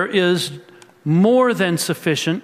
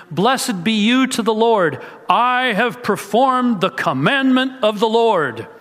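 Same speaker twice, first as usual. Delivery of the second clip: Saul's greeting; 5 semitones higher than usual. Retold or imitated. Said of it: "Samuel came to Saul and said".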